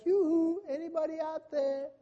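high sing-song mocking call; mocking hoo-hoo call. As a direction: tease like a careless scoffer. Mocking world calling out.

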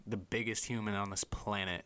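usual speaking voice

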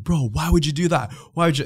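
retold complaint with a hint of an Arabic accent; thick Arabic accent. Man confronts teller over his friend, mock Arabic accent. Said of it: "like, a thick Arabic accent".

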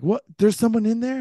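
high-pitched mock alarm; retold screaming. Girlfriend asks about someone in the room, mock-shrieked disbelief. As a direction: imitate a shocked girlfriend, pitch jumping up. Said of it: "like, screaming".

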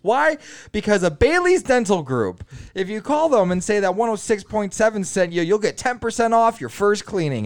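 high, punchy ad voice; radio ad read. Retold or imitated. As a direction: sell it like a radio spot.

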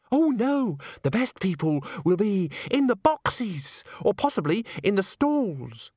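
high, slow, gushing correction; gushing Christine. Acted. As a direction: trill it out, stretching the words.

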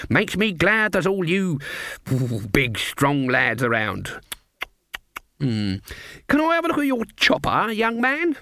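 very high, cooing granny; flattering old lady. A narrator's reading. Granny flatters the woodcutter in a high coo.

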